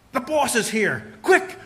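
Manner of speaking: hushed then sharp "Quick!"; slow warning then a sudden high "Quick"; urgent warning. Retold or imitated. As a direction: warn him the boss is coming. Partner warns boss is coming.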